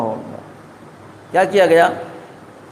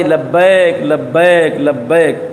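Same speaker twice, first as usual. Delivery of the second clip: a low reply that sinks lower each time; divine answer repeated; 5 semitones lower, much slower than usual. Acted. God answers the sinners' call, low and sinking deeper. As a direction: answer three times, settling deeper. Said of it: "آواز آئی".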